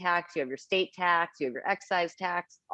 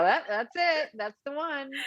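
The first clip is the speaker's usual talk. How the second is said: much higher pitched eureka moment; imitated delighted discovery; reenacted excited recognition; 9 semitones higher than usual. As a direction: act out spotting the winner. Acting out finding the right one.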